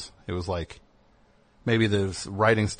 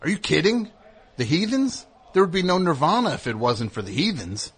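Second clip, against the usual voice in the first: much higher, incredulous gushing; mock rock musician testimonial; 7 semitones higher than usual. A rock musician insisting the band made his famous band, much higher. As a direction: scoff in disbelief, then gush. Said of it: "And then he goes".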